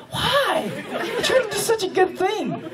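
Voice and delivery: very high, laughing despair; laughing lament. Retold or imitated. Driver lamenting his good deed gone wrong. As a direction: wail it through laughter.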